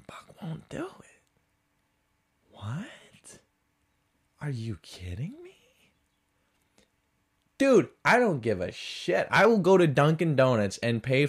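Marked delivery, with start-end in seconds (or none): 0.1-5.9 hushed, breathy disbelief; incredulous whisper. Acted. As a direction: whisper it, aghast at the refusal. Incredulous at the barista's refusal.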